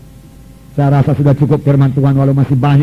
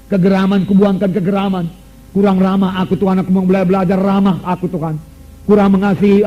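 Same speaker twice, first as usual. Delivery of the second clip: earnest prayer voice, slightly raised; modelled prayer; 3 semitones higher than usual. Shown as a demonstration. Preacher leading the congregation in prayer, earnest prayer. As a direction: pray it aloud so the church can follow. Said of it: "Tuhan katakan".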